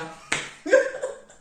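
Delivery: high, breathless laugh at herself. Real, not acted. Laughing at her own torn bag, a high breathless laugh. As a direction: burst out laughing at the misfortune.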